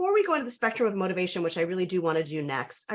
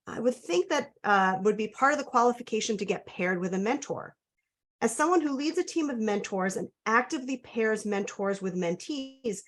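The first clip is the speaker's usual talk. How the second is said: measured, clearly phrased reading of a written question; reading someone's submitted question aloud; careful read-aloud; 3 semitones higher than usual. Real, not acted. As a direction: read it out carefully so listeners can digest it. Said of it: "I'll try to read slowly".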